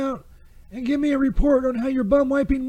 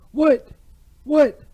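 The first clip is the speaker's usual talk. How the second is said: surprised what; 5 dB louder than usual. Real, not acted. Sudden sharp reaction.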